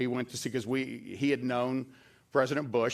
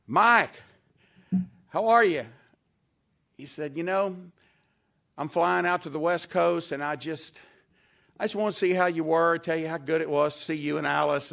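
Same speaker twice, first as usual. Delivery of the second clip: hearty, louder and higher imitating the President; mock presidential greeting; 4 semitones higher, 5 dB louder than usual. Storyteller voices President Bush calling the governor, hearty. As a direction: boom out a friendly hello to an old pal.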